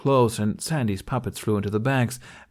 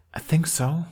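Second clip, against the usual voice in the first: unsure, whispered admission; hesitant whisper; 8 semitones higher than usual. Acted. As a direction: barely voice it, unsure. Jack hesitantly admits discovery.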